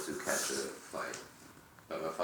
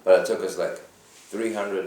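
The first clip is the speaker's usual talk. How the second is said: loud, high bragging burst; telling the best part with gusto; pumped-up storytelling; excited; 5 semitones higher, 12 dB louder than usual. Real, not acted. Excited gun story brag.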